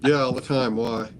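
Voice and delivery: lightly imitated deadpan reply; understated mock deadpan; deadpan imitation. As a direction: play it straight, as if oblivious. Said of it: "deadpan you are".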